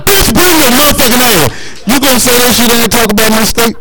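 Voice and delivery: high, indignant comic threat; mock outrage. Daring the collector to come to Mississippi, mock outrage. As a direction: blow up high, defending Mississippi. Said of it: "I was like".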